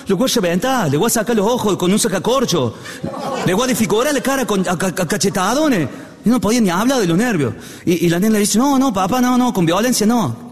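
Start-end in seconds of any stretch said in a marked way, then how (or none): 0.1-5.9 higher-pitched comic ranting father; mock furious threats. Acted father threatens his daughter's lover. 8.6-10.5 higher-pitched mock pleading; pleading daughter. Daughter pleads with raging father.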